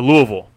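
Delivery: Louisville said LOO-uh-vul; quiz pronunciation option. Shown as a demonstration. Host offers the last choice, Louisville as LOO-uh-vul. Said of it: "How do you pronounce".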